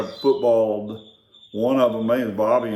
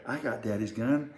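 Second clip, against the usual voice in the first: low, much softer taunting voice; hushed threat; quiet menacing quote; 3 semitones lower, 12 dB quieter than usual. Retold or imitated. Kid to brother, hushed menacing threat. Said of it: "But it was like this".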